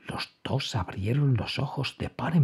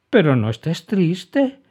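kind, smiling reassurance; smiling comfort; 6 semitones higher, 5 dB louder than usual. A narrator's reading. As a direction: cheer up a sad friend. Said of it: "dijo Emma sonriendo".

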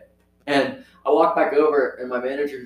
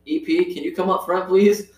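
higher, sing-out call for a coworker; 6 semitones higher than usual. Retold or imitated. Cashier paging the manager up front, calling out. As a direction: call her up front, pitch lifted.

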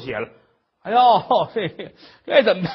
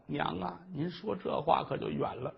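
tearful; slower than usual. Acted. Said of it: "珊瑚眼泪哗哗的".

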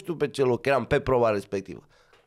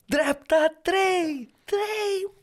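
high, drawn-out co-driver yelling into a dead intercom; yelling pace notes to the driver over dead comms; yelled pace notes; much slower than usual. Retold or imitated. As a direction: shout each call slow and high. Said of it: "să strig, să țip".

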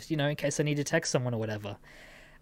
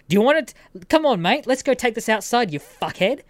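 fast, higher mock challenge; swearing angrily; 6 semitones higher, 5 dB louder than usual. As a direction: imitate an angry man picking a fight. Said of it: "then just starts swearing at me".

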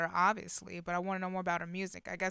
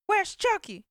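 much higher and louder, a panicked retold cry; frantic demand; 12 semitones higher, 7 dB louder than usual. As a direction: demand the baby back in a panic. Mother asking for her baby.

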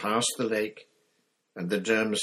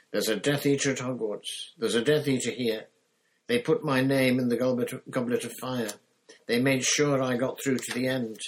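higher, louder alarmed warning; urgent boy; 6 semitones higher, 6 dB louder than usual. Acted. Harry urgently warns Moody of a Death Eater at Hogwarts. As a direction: raise the alarm, insistent.

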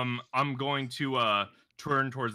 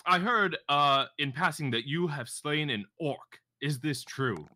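attention-grabbing address. Acted. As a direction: hail him grandly, then settle into the question. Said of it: "try to just garner as much attention".

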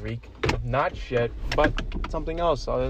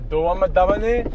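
impression of friend; 4 semitones higher, 7 dB louder than usual. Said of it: "I'm doing an impression of you".

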